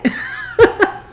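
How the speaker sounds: high, wheezy burst of laughter; cracking up. Real, not acted. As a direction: burst out laughing at your own joke. Cracks up at own joke.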